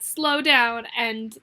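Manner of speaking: drawn out, very slow; deliberately slowed words. Retold or imitated. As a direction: stretch the words out as if showing how slow. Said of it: "I'm like".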